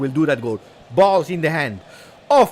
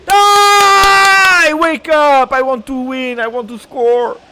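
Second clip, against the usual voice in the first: high shouted rallying cry; fired-up yelling; 12 semitones higher, 9 dB louder, much slower than usual. Real, not acted. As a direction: roar at the team to wake up. Anfeuern des Teams.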